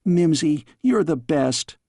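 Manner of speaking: put-on excited young princess; girl exclaiming. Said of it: "exclaimed the girl".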